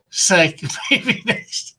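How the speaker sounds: giggling through a teasing reply; playful Shield laughing as he teases. Acted. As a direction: laugh while you brush him off.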